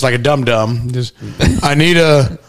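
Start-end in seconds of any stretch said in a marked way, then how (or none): 1.6-2.4 drawn-out, hesitant coffee order; slow mock order. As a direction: sound lost ordering coffee.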